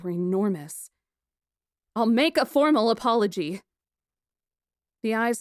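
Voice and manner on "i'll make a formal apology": sarcastic. A narrator's reading. Heroine's sarcastic reply.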